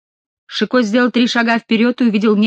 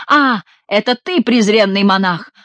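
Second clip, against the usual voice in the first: mock out-of-breath scolding; 2 semitones higher, 4 dB louder than usual. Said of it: "делая вид, что он только что подбежал весь запыхавшийся".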